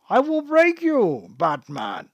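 lightly voiced menacing villain; a hint of the masked brute; Bane voice.

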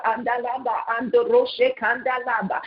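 rhythmic tongues prayer; speaking in tongues. Real, not acted. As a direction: chant syllables in earnest prayer. Prayer in unknown syllables.

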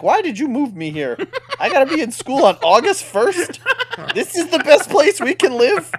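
put-on an indignant kid complaining to his parents; mock outrage. Imitating an angry kid complaining to his dad. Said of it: "I'd be like".

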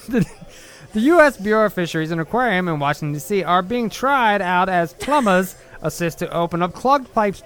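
put-on old radio announcer with a JFK-style New York accent. Reading a newspaper clip for a video in his New York accent. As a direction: read the clipping like a vintage newsreel voice. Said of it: "You sound a mix between, like, an old radio person and J F K".

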